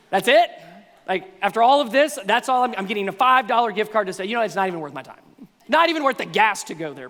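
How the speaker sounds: loud, scornful, disappointed griping; mock-scoff at the small gift; scornful complaint. Preacher voicing an ungrateful listener scoffing at a gift card.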